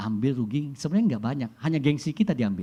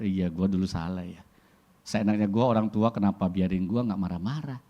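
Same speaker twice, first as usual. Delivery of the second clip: lowered regretful admission; 7 semitones lower than usual. Retold or imitated. Grown youth regretting.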